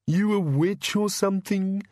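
high, slow monster moan; drawn-out, high bogeyman voice. Acted. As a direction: moan the question like a cowed creature. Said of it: "moaned the bogeyman".

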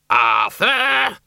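loud high scream of his name. A narrator's reading. Doreen screams at Arthur clinging to the ceiling, loud scream. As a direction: scream at him to let go. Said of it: "screamed Doreen".

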